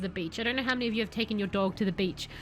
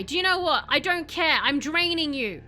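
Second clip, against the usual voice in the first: gloating; 4 semitones higher, 5 dB louder than usual. Acted. Gloating while draining victim.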